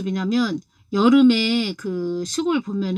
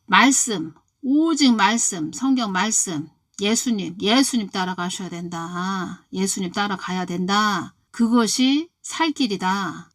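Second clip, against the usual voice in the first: preaching. Acted. Preaching the exhortation.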